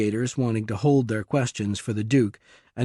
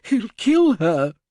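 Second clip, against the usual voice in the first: much higher, louder, slow urgent plea; said urgently; 10 semitones higher, 5 dB louder, slower than usual. A narrator's reading. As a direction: beg them not to call the police. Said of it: "the Duke said urgently".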